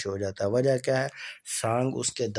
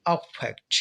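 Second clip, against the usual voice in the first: अफेक्ट with the first syllable अ hit hard, फेक्ट eased; stress on अ of अफेक्ट; slower than usual. Shown as a demonstration. Teacher practises the noun for students, first-syllable stress on अफेक्ट. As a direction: lean on the opening अ in अफेक्ट. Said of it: "अब मैं इनको पढ़ने की practice करता हूँ".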